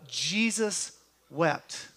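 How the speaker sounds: "Jesus wept" drawn out slowly, word by word. Shown as a demonstration. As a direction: say "Jesus wept" slowly so they can repeat it. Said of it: "I want you to just say that with me".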